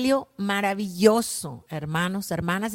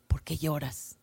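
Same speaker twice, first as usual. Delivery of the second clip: tender; 5 semitones lower, 7 dB quieter than usual. Acted. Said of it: "esa ternura, esa delicadeza".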